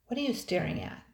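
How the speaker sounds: sharp high demand. A narrator's reading. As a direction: bark the question at him. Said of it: "demanded the captain".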